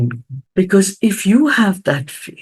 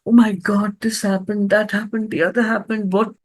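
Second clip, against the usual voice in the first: bitter complaining; 5 semitones higher than usual. Pretend. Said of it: "Now, I can be very bitter".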